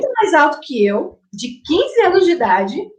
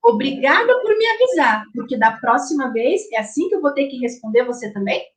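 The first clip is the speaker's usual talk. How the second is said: sarcastic retort. Retold or imitated. Mother answering her rude teen son, sharp sarcastic thanks. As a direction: needle him with sarcastic thanks. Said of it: "respondeu de uma forma muito grossa".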